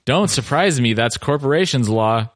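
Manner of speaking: stiff, mechanical reading voice; stilted robotic voice. Shown as a demonstration. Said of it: "read in a very stilted robotic voice".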